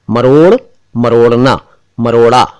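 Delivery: मरोड़ ending on a flapped ड़; correct flap. Shown as a demonstration. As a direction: finish मरोड़ with a tongue flick. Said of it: "एक शब्द है मरोड़".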